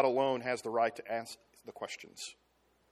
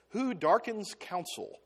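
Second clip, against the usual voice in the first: slow, weighty rebuke from God; solemn God voice; 4 semitones higher, 3 dB quieter, slower than usual. Retold or imitated. God rebuking Job, slow and solemn. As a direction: let each word land like a verdict. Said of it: "That's the way he says it".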